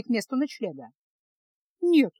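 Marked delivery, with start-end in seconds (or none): 1.8-2.1 curt grumble. A narrator's reading. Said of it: "буркнула Феска".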